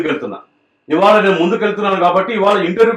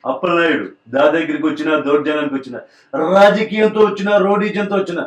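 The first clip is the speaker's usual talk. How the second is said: film dialogue. Retold or imitated. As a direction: build it up and hit the last line hard. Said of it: "dialogue చేయాలంటే ఇలా ఉంటది".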